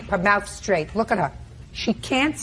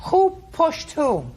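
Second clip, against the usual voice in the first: incredulous question; 6 semitones higher, slower than usual. Real, not acted. Judge stops witness, demands clarity.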